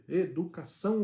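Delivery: "educação" slowed, with the weight on final "ção"; stress on ÇÃO. Shown as a demonstration. Father showing where the tonic syllable falls, stressing "ção" in "educação". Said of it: "a sílaba tônica é o são".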